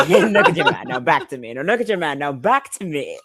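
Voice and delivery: laughing smooth pitchman voice; Old Spice guy. Retold or imitated. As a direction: ham up the cologne ad line. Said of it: "impression of the guy from the Old Spice commercials".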